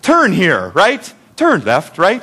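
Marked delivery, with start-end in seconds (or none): 0.0-0.7 badly faked British GPS lady; mock British accent giving directions; hammy attempt at a British accent; terrible British accent. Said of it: "I do a terrible British accent". 1.4-2.0 badly faked British sat-nav lady; mock British accent, giving directions; hammy British navigation voice; terrible British accent. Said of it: "I do a terrible British accent".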